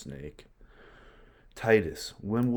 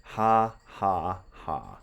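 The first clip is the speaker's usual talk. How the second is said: mock mad laughter; much slower than usual. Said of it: "he's laughing".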